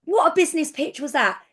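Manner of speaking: a light, keen take on how Dan talks; imitating Dan. Dan replying eagerly to her business pitch, lightly imitated. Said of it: "this is how he talks".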